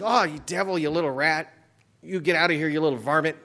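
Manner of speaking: lampoon a swaggering false teacher; mock arrogant scolding. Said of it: "these false teachers, they'll just".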